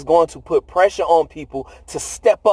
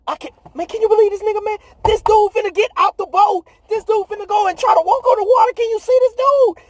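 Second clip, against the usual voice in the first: high, incredulous mock voice of the disciples; hammed-up high gossiping disciples; disciples in disbelief; 12 semitones higher than usual. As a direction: squeak out the disbelief like stunned friends. Disciples mocking Peter in boat.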